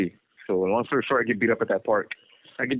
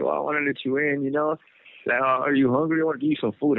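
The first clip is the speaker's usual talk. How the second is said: higher-pitched retold plea, lightly tearful; imitating crying sisters; 6 semitones higher than usual. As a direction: mildly imitate upset sisters offering help. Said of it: "They're crying, and they're like".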